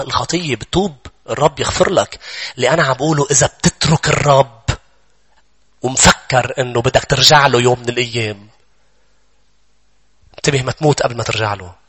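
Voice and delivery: ordinary talk, nothing marked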